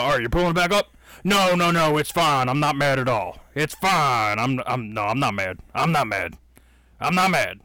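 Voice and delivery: mock insisting he's not mad, through gritted teeth; lightly voiced host insisting he isn't mad; fake calm denial. Podcaster imitating angry host, mock calm denial. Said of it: "and he's like".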